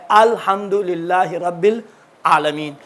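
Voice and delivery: الحمدللہ رب العالمین very slow, ال flowing, no bounce; careful tajweed demo; slow model reading. Shown as a demonstration. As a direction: recite الحمدللہ رب العالمین slowly and smoothly. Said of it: "ال نہیں ہے".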